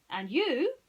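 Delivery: high, loud pointed detective; single him out dramatically; Basil voice. Acted. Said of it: "he said".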